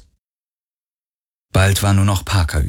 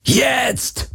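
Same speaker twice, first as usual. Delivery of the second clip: high, strained yell, held back in volume; roared. A narrator's reading. Garland signals Kirai to run, strained yell. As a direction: cry the command out, drawn tight. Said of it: "brüllte Garland".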